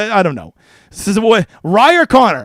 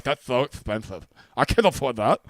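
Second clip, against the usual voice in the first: mock whiny player; 8 semitones lower, 8 dB quieter than usual. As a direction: grumble like a cheapskate player. Mocking price-sensitive DFS players.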